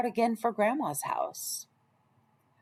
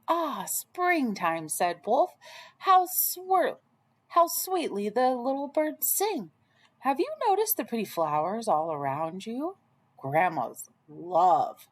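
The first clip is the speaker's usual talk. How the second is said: coaxing wolf. Acted. Wolf luring Red off the path, lightly voiced coaxing. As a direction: charm her off the path, a hint of cunning.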